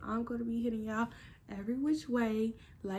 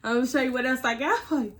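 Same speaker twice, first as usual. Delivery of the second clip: put-on threatening boyfriend; 6 dB louder, faster than usual. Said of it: "He said".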